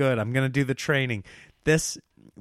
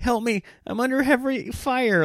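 sniveling, whimpering, very high-pitched voice; 10 semitones higher than usual. Retelling how she mimics the speaker calling for help, mock-whimpering sniveling impression. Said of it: "her impression of me is just this little whimpering, sniveling turd".

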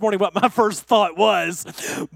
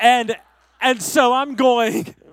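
ordinary talk, nothing marked

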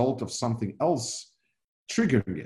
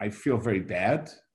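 normal talking voice

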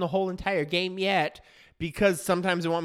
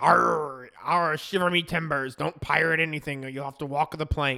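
jokey put-on stage pirate voice; 2 semitones lower than usual. Joking about pirating videos, slipping into a put-on pirate voice. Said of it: "I don't think you should pirate".

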